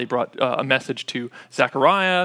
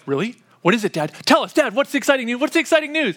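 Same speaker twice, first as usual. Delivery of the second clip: put-on eager kids; 6 semitones higher, faster than usual. Kids begging dad to reveal the news, higher and eager. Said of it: "And they're like".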